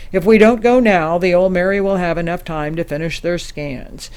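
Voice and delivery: forceful and urgent briefing; urgent insistence. Acted. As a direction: drive home why there is no time to lose. Urges action before time runs out.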